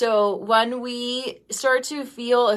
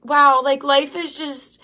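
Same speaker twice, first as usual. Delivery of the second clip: tearful; 4 semitones higher than usual. Real, not acted. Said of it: "I'm crying right now".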